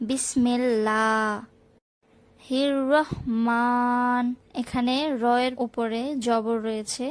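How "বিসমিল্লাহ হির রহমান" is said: বিসমিল্লাহ with a thin lam, then রহমান with a round, full র; slow teaching take, র in রহমান rounded; tajweed demo. Shown as a demonstration. Teacher demonstrates to students, slow, র rounded. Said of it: "একে গোল করে পড়তে হবে".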